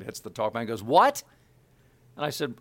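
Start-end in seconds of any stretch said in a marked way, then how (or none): 0.8-1.2 loud, high mock-angry yell; angry director. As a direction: snap it loudly, imitating an irate boss. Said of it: "who's very angry at this point".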